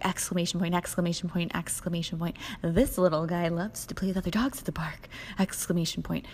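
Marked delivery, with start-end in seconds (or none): 2.6-5.1 hammed-up enthusiastic texter; mock over-eager. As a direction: bounce it like an overexcited puppy. Reading the over-eager guy's text.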